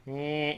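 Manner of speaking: short mechanical whine of a door; door noise. Retold or imitated. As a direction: imitate a straining garage door. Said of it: "made this horrible noise".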